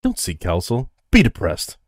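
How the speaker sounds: loud Boston tough guy; Boston accent. Retold or imitated. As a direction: bark it like a Boston bro. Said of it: "With that Boston accent".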